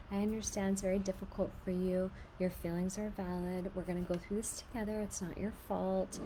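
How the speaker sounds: put-on soft, tender reassurance to a crying child; gentle comforting. Shown as a demonstration. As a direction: comfort a hurt child softly. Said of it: "These are really good phrases to say".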